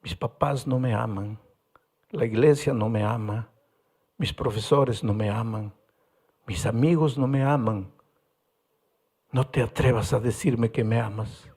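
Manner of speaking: a mild imitation of a weeping boy; tearful. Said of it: "empezó a llorar".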